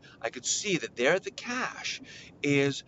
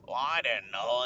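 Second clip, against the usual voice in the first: meek other parent; 5 semitones lower than usual. Retold or imitated. Other parent answers meekly.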